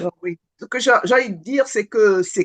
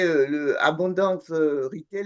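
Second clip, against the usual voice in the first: slow, lower, self-aware mock English accent on the name; 4 semitones lower, slower than usual. Real, not acted. Coaching participant says the event name in a mock English accent, slow. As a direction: say the French name with an English accent, lightly mocking herself. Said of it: "là, je suis avec mon accent anglais".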